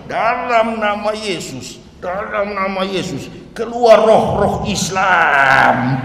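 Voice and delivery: slow, hushed mock-preacher incantation; mock exorcism. Pastors praying over the convert, a slow hushed mock exorcism. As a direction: drag it out like a pastor casting out spirits. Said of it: "lima puluh lebih pendeta".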